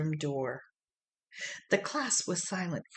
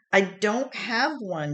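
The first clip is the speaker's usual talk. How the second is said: sadly; 5 semitones higher, 4 dB louder than usual. A narrator's reading. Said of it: "he said sadly".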